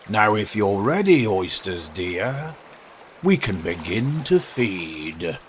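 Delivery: slow, lightly voiced walrus; stately walrus. Walrus inviting oysters to the meal, mildly pompous. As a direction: savour it with a measured delivery.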